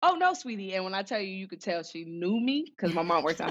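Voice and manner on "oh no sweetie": high, sing-song sympathetic nurse; imitating gentle nurse. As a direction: voice a sweet nurse letting her down gently. Nurse gently breaks news.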